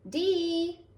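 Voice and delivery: high called name across the house; calling out. Acted. Grandma calling granddaughter into the kitchen, high call. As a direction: call her in from the other room.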